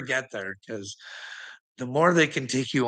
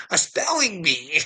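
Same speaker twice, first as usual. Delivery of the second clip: ordinary talk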